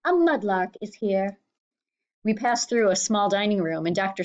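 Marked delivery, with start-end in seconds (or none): 0.0-1.4 declaring housekeeper. A narrator's reading.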